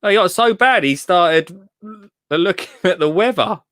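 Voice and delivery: mock narrator. Mocks himself in third person.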